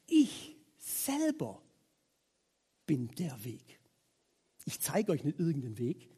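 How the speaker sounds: soft, slow, solemn claim; solemn Jesus. Retold or imitated. Preacher voicing Jesus to the congregation, soft and solemn. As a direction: say it softly with quiet weight. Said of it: "Er sagt".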